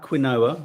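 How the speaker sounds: QUINOA said kwin-OH-a, with a KW; mispronounced quinoa. Shown as a demonstration. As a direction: say quinoa as it's spelt, "kwin-OH-uh". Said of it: "not quinoa".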